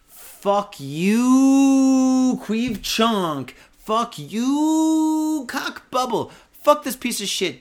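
high, loud, furious yelling; furious shout. Real, not acted. Cursing the man who set himself on fire, furious high shouting. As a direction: let rip at him, voice cracking high. Raging at the train attacker.

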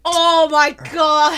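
loud, slow, drawn-out cry of disgust; disgusted shout. Real, not acted. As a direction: bellow it in revulsion. Tasting the gross shot.

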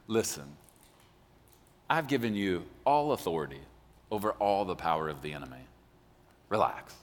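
calm reassurance. Retold or imitated. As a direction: calmly settle a worried crowd. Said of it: "that's how I think he was saying that".

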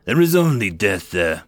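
Orkin voice. Acted. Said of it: "the Orkin whizzed".

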